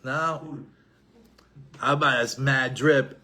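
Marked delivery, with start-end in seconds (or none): 1.8-3.2 slow, lightly voiced teenager with rising tag; a hint of a cool teenage son dropping slang. Son shows off new street slang to his father, slow and casual. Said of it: "Now what does he say?".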